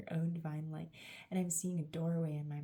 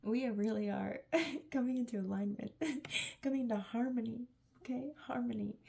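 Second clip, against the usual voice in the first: giggling, much higher; laughing; 5 semitones higher than usual. Real, not acted. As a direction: laugh through the words. Laughs while speaking.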